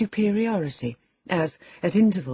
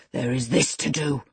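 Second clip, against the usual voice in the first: thundering; 2 semitones lower than usual. Acted. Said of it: "thundered Heathcliff".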